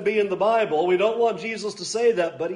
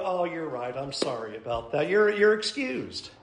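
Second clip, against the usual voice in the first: mock indulgent God; 5 semitones lower, 7 dB quieter than usual. Preacher voicing an imagined lenient God, soft and low. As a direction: hush it down like a mock-gentle pardon. God mockingly excusing people.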